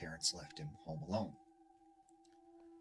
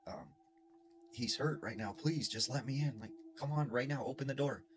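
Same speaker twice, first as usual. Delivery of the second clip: put-on higher, urgent girl's plea; 5 semitones higher than usual. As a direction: push him to open the door now. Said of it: "And she's like".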